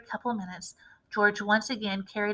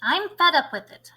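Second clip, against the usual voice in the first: angry shout; 3 semitones higher, 5 dB louder than usual. A narrator's reading. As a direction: spit out the complaint. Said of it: "shouted Grandma".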